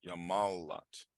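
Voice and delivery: yamalat said slowly, each syllable clear; slow drilled pronunciation. Shown as a demonstration. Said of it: "you want to do now".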